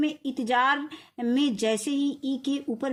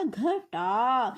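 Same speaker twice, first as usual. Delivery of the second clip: slow spelling demo; much slower than usual. Shown as a demonstration. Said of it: "टाटा में आ की मात्रा".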